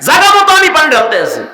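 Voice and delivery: fast excited exclamation. Real, not acted. Preacher shouting a punchline to the crowd, fast.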